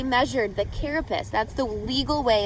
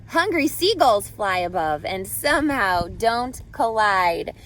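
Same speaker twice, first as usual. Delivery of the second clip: storybook read-aloud with lively rhythm; reading to children. A narrator's reading. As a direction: read it like a picture book to a class. Reading picture book to class.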